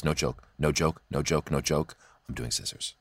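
whispered, earnest no-joke; hushed insistence. Retold or imitated. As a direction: swear it quietly then whisper the play. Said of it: "She goes".

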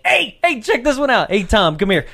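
loud, eager summons; excited calling out. Pretend. Sentient trees calling a friend to watch her, excited. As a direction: call a pal over to see this.

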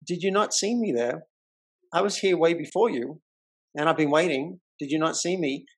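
calmly insisting; firm questioning. Retold or imitated. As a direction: press on not, asking firmly. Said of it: "I did state my position".

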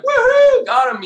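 high jubilant yell of triumph; excited whoop. Retold or imitated. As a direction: whoop it out like you just hooked a giant fish. Hooking a monster tuna.

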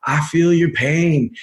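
put-on slow, half-hearted Southern Bill Clinton accent; a slow, lightly done Bill Clinton accent that doesn't quite land; Bill Clinton's line in a bad, slow Southern accent; terrible Bill Clinton accent. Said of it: "that's a terrible Bill Clinton accent".

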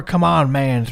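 a hint of the grumbling Rusev; mild Rusev imitation. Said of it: "I want more".

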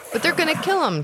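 put-on high, pleading young voice; boy begging the cook to save his friend, high pleading voice; pleading orc boy. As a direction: beg like a scared kid. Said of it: "Curva said".

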